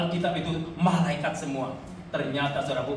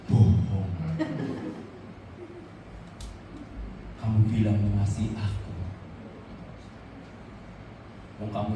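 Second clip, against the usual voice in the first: voice of God; 6 semitones lower, 4 dB quieter than usual. Retold or imitated. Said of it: "Terus kata Tuhan".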